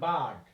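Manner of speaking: বার্ড as "baad", R unsounded; silent R. Shown as a demonstration. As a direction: go from the vowel straight to D in বার্ড. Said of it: "আমরা আর এর উচ্চারণ এখানে করি নাই". (বার্ড, র উচ্চারণ না করে)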